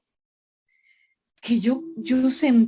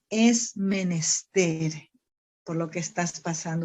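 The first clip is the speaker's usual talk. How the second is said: tender divine words; 4 semitones lower than usual. Retold or imitated. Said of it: "miren lo que me decía".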